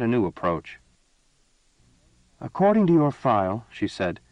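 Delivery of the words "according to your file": raised, demanding empress voice; imperious empress. A narrator's reading. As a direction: press him like a cold ruler. Empress questions prisoner.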